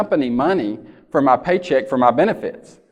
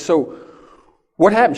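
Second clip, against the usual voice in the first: startled question; 3 semitones higher than usual. Retold or imitated. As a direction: ask as if you just heard the door slam. Husband asks panicked wife.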